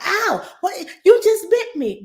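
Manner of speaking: high, pained yelp of surprise; startled ow. Retold or imitated. Parent yelping at a baby who just bit them, high and startled. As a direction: squeal as if just bitten.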